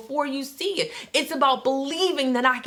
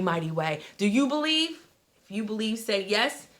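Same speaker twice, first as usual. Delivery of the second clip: much softer, lower invitation; soft close; 3 semitones lower, 6 dB quieter than usual. Acted. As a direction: wind down into a quiet pitch. Soft closing call.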